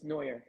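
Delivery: "Neuer" said NOY-er; "Neuer" in two syllables, ending on a fall; corrected name pronunciation. Shown as a demonstration. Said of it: "so you can correct them".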